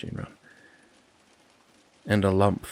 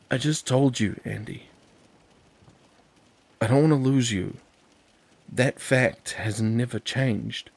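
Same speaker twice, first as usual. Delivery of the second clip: insistent; 4 semitones higher, 5 dB louder than usual. Acted. Joel insists emotionally.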